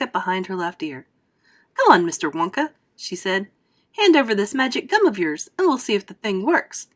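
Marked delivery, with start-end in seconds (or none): 1.7-2.7 louder, impatient demand; pushy girl. Acted. Violet to Wonka, impatient and pushy. 3.9-6.9 louder, impatient demand; pushy girl. Acted. Violet to Wonka, impatient and pushy.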